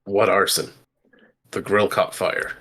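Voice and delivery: ordinary delivery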